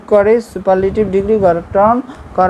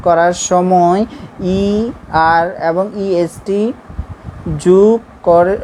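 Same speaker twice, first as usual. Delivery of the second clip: slow rule reading; slower than usual. Shown as a demonstration. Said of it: "আবার বলি".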